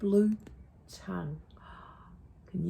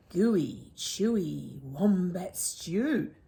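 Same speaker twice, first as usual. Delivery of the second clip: boastful; slower than usual. Acted. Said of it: "boasted Dingo".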